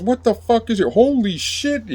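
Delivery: high mock yell turning to shock; exasperated, then shocked guard. Guard arrives, sees the bloodied man.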